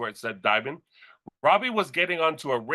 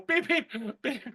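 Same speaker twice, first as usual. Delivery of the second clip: heart monitor beeps; 9 semitones higher, 4 dB quieter than usual. Retold or imitated. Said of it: "'cause I go".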